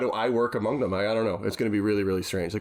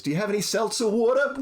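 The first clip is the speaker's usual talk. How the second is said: mock New York accent; 12 semitones higher, 3 dB louder than usual. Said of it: "impression of an accent to do".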